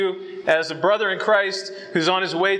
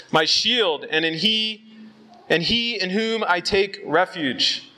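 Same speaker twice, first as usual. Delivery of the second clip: slow, raised, proclaiming the psalm; scripture reading. Acted. Preacher reads the psalm to the boys, proclaiming slowly. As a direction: ring out each line like a declaration.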